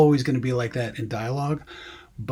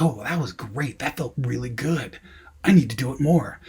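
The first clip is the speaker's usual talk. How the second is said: swooping, mildly gushing imitation; mock student enthusiasm. Student hooked on a new trick, mock enthusiasm. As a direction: lightly parody a delighted student.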